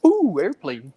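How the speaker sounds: distracted exclamation. Father mimicking his son's short attention span, distracted exclamation. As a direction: imitate a child suddenly sidetracked.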